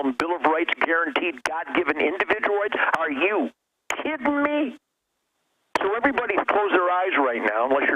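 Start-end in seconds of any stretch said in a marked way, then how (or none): 3.0-4.8 kidding leaps way up in disbelief; incredulous outrage. Real, not acted. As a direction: throw it out, scornful and amazed. Ranting against Jim Carrey.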